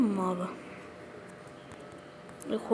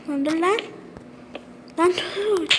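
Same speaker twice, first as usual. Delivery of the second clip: high, pressing calls to stop; urgent yelling; 8 semitones higher than usual. Real, not acted. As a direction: shout for it to stop. Trying to stop something in game.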